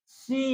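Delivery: "सी" with a long, high E sound; stress on the vowel. Shown as a demonstration. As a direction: stretch the "ee" in "सी". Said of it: "दबाव कहाँ है?".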